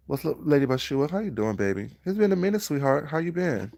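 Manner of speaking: high, syrupy fake-friendly greeting; sweet-talking greeting. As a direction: gush over them, overly sweet. Imitating sweet-talking drama people.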